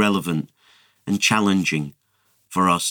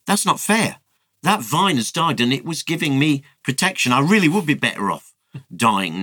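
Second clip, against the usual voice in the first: a mild mock protest that starts high; lightly voiced petulant anger; angry; 6 semitones higher than usual. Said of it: "gets really mad".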